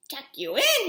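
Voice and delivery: loud outraged question; captain scoffing at the boy; bellowed. Acted. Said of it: "he bellowed".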